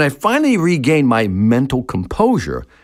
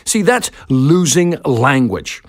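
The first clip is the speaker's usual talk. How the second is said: "See, that's losing language" drawn out slowly, each word weighted; slow, weighty statement; slower than usual. Shown as a demonstration. Speaker to workshop salespeople, slow weighty emphasis. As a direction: lean on "losing" and let it land slowly. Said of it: "Let me say that again".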